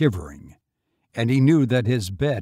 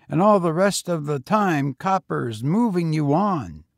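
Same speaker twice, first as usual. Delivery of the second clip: put-on higher, eager boy voice; young boy; 6 semitones higher, 4 dB louder than usual. A narrator's reading. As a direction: pitch up for a street boy. Boy talks.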